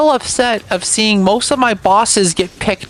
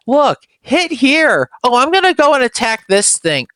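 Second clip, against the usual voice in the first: spelling it out; 5 semitones higher than usual. Retold or imitated. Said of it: "paint a big glowing arrow".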